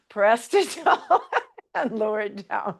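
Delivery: real laughter breaking into the coaching cue; giggling while calling the move; laughing through the cue. Real, not acted. Instructor laughing at her husband while cueing the move.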